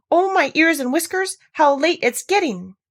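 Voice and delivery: high, loud flustered rabbit; hurried rabbit voice, high and anxious; fretting White Rabbit. A narrator's reading. White Rabbit frets aloud.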